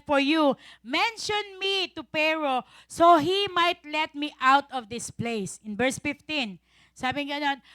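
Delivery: slow, deliberate Bible reading; scripture reading. Acted. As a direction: read each phrase slowly and clearly. Reads scripture verses. (mabagal na pagbasa ng Bibliya)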